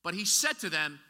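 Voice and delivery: slow, measured Bible reading; scripture reading. Acted. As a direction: read the passage with weight.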